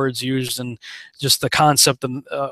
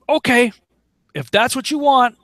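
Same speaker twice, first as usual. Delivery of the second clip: voicing God; 8 semitones higher than usual. God gives up on a stubborn person, mock resigned. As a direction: give in with a sarcastic shrug. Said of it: "he says".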